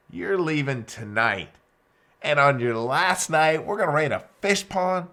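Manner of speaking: mock disbelief at a silly plan; incredulous. Bam Bam incredulous at request.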